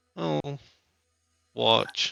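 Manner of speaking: put-on high, sad, crestfallen child voice. Voicing a creature as its watch falls apart: sad, like a disappointed kid. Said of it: "like a kid that's just dropped his ice cream".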